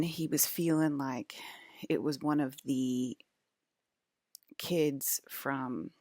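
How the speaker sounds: slow, breathy whisper. Real, not acted. Telling a dream story, sudden slow whisper. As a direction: drop to a secretive whisper. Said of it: "drops into a whisper mid-story".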